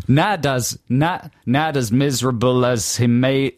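halting attempt at a New York accent; badly faked New York accent; phonetic New York accent. Shown as a demonstration. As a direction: try a New York accent, stumbling slowly. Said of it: "sound like you're from New York".

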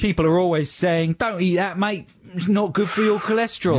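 high, hammed-up Italian accent; silly Italian accent. Chef quoting people warning about cholesterol, silly Italian accent. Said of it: "this sort of silly Italian accent".

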